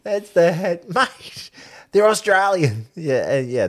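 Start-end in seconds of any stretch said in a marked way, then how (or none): 0.9-2.9 high, curt mock brush-off; quoting the coach again, mock curt; dismissive. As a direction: repeat the blunt brush-off. Repeated quote of Eddie.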